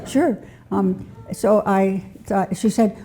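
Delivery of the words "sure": Sure said much higher through a laugh; laughing repeat. Real, not acted.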